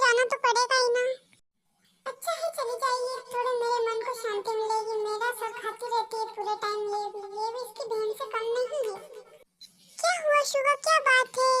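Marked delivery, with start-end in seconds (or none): 2.1-9.0 quiet, muttered aside, softer than his own talk; grumbling under his breath. Acted. Suga grumbling to himself about his wife, muttered softly. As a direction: mutter it to yourself so she won't hear. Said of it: "क्या बड़बड़ा रहे हो".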